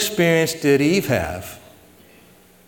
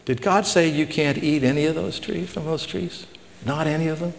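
lightly voiced tempter, higher and softer; insinuating tempter; 4 semitones higher, 5 dB quieter than usual. Satan questioning Eve through the serpent, softly insinuating. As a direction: plant doubt with a soft, raised question.

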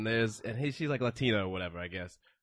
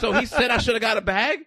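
imitating the buyer; 6 semitones higher, 5 dB louder than usual. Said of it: "being like".

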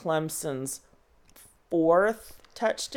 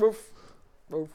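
wolf voice; 7 semitones lower than usual. Acted. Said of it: "Obligatory wolf howl".

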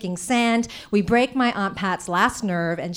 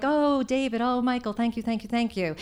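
fake sweet gratitude; 4 dB quieter than usual. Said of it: "fake smiling and trying to act all normal".

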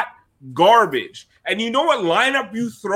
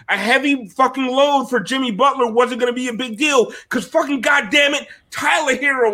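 real frustrated shout; ranting shout; 4 semitones higher than usual. Real, not acted. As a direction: let it boil over into a shout. Furious rant about Heat management.

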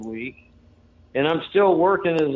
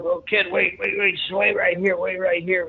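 put-on higher, hurried pleading of a flustered old doorman; flustered stalling; 5 semitones higher than usual. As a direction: stall the kid nervously, voice pitched up. Flustered Charlie stalls him.

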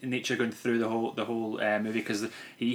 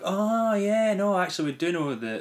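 quoted voice; 6 semitones higher than usual. Retold or imitated. Quoting someone finding out on phone.

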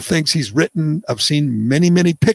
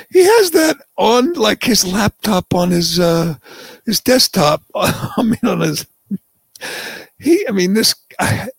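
high, giggling through the words; can't stop laughing while explaining; laughing disbelief; 7 semitones higher than usual. Real, not acted. Host laughing as he describes the meme to cohost, giggling.

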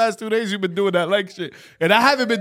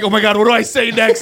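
mock panic, a little louder; retold panic; 3 semitones higher, 5 dB louder than usual. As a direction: act out scrambling for words. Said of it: "I'm panicking".

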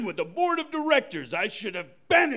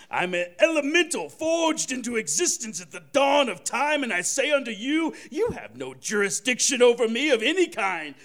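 grandiose proclamation. Acted. Santa's godlike proclamation.

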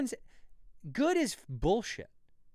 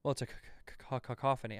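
fake stutter; 3 dB quieter, much faster than usual. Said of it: "if you have a stutter".

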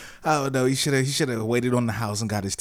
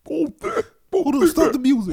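loud; 7 dB louder, slower than usual. Pretend. Mock concert stop.

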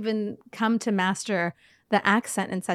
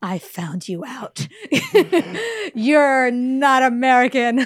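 caught-you reaction; 3 semitones higher, 6 dB louder, slower than usual. Retold or imitated. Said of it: "Then I'm like".

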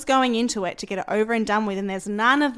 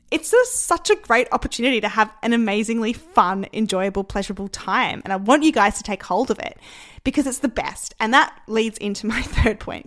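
real enthusiasm, louder in bursts; excited; 4 dB louder than usual. Real, not acted. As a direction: get carried away with excitement. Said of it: "Can you hear I'm getting excited".

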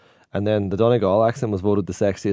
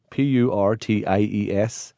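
slow careful spelling, each letter apart; spelled out slowly; slower than usual. Shown as a demonstration. Spelling the word for the listeners, slow and deliberate. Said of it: "we call potatoes purties".

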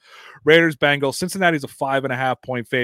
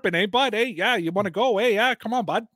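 much higher mock chirping at a rival; Canadian hockey player; 9 semitones higher than usual. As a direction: taunt the other guy, hockey-bro style. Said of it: "welcome to Canadian hockey players".

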